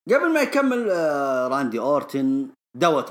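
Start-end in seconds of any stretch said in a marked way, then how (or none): none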